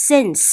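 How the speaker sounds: "since" said clearly for learners; pronunciation model. Shown as a demonstration. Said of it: "ออกเสียงคำว่า since".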